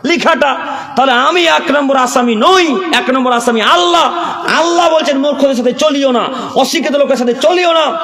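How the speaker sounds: preacher calling out to the congregation; fiery preaching. Acted. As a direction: hammer the questions home to the crowd. Preacher builds to full force.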